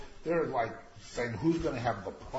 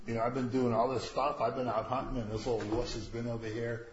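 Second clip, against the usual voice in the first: lightly voiced aggrieved son, pitched up a little; Esau; 3 semitones higher, 4 dB quieter than usual. Poor son begs his father for a blessing too, mock plaintive. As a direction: plead like a cheated brother, half in jest. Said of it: "So look at poor Esau".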